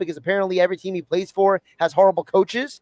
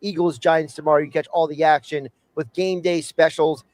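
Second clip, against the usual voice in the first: steady radio host ad read; sponsor read; 3 semitones lower than usual. Acted. Host reintroducing segment and tavern sponsor, radio ad read. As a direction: rattle off the sponsor copy in an even flow.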